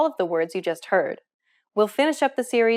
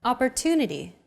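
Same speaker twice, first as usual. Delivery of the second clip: Opportunity with a longer "tu" syllable; stress on TU. Shown as a demonstration. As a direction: lean on the "tu" in Opportunity. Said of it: "Compare this once again with Arabic".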